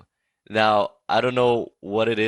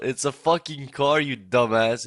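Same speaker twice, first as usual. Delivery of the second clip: mild mock yell at a friend; half-yelled retort, pitched up at the start; retold exasperated yell; 4 semitones higher, 4 dB louder than usual. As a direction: raise the voice as if fed up, acting it out. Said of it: "I just yell out".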